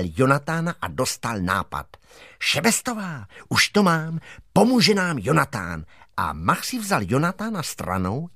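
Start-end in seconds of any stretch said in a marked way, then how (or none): 2.4-5.8 mild excited schoolboy; boy with an idea. Acted. Boy tells Šebestová the dog will help, lightly excited.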